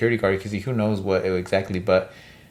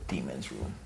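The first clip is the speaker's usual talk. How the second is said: low, hushed whispered title; spooky whisper; 8 semitones lower, 17 dB quieter than usual. Acted. Co-host introducing the scary story's title, spooky whisper.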